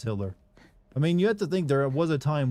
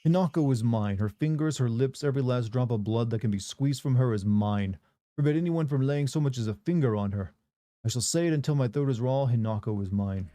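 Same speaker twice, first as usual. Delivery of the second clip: a possessive figure, lightly voiced, owning every word; obsessive possessor. Reading the game's obsessive note aloud, a light possessive voice. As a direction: read it as a claim he'll repeat until hoarse.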